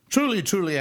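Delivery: preacher's emphatic "Truly, truly". Acted. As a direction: hammer "Truly, truly" home. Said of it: "He's putting emphasis on it".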